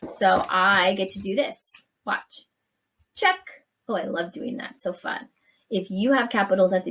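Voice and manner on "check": high, louder gleeful "Check". Real, not acted. Teacher gleefully ticking the box for the class. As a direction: pop it out with glee.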